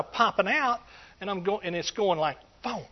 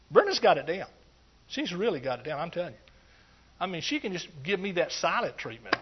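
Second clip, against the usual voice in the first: normal talking voice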